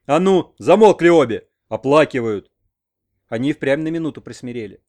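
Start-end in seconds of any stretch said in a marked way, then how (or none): 0.1-2.5 angry, much louder snarl; old man growling at the crying women; growled. A narrator's reading. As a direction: roar at the mourning women.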